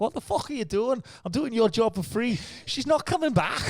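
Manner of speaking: high, loud mock comedian taunt; high-pitched laughing mock rant; imitating Kyle. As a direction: heckle him from the stage, hammed up. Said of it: "he's like".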